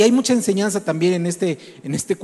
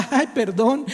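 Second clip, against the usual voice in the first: gleeful mock apology; 6 semitones higher, slower than usual. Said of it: "él se vuelve a gozar".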